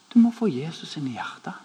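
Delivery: «Du må få Jesus inn i hjertet» said softly, rising gently at the end; soft plea. Retold or imitated. Friend gently urging the angry parking guard, soft and kind. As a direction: tell him kindly and softly. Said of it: "og så sier han".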